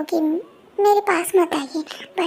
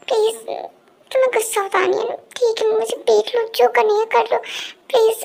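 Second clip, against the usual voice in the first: higher-pitched, agitated pleading; urgent, higher-voiced protest; desperate pleading; 4 semitones higher than usual. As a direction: plead with an angry lover to believe you. Acted quarrel, he begs her.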